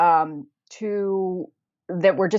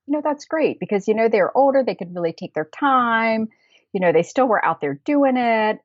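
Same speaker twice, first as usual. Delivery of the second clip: higher, warm praise; admiring; 5 semitones higher than usual. Retold or imitated. Walker praising the older couple, higher and admiring. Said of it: "I was like".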